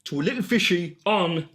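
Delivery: broad northeastern English Geordie voice; Geordie accent. Pretend. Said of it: "makes me wanna do a Geordie accent".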